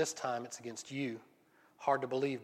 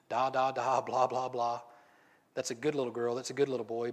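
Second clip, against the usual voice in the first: put-on baby talk. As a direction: talk down to them like a toddler. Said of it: "to this people in baby talk".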